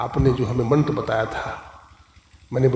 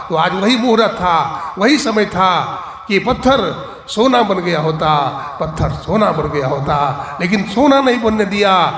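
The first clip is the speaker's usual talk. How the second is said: impassioned rebuke; 2 semitones higher, 3 dB louder than usual. Retold or imitated. Guru scolding, weeping disciple.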